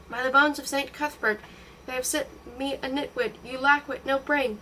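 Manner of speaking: furious mother-to-be screeching at the apprentice. Acted. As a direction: scold the girl in a fury. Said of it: "Screeching still".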